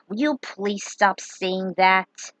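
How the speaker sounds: slow, weary exasperation; annoyed. Acted. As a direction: drag it out, fed up. Annoyed friend complains.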